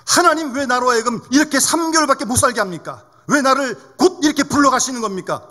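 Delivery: resentful prayer. Retold or imitated. Grandmother protests her three-month prognosis to God, resentfully. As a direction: plead in protest, as a retold grievance. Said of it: "원망 기도를 드렸습니다".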